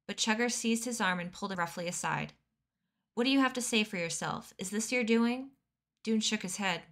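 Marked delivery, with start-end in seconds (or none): 3.1-5.5 stern demanding questions; angry interrogation. Acted. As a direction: grill him angrily. Chugger grabs Dune, interrogates.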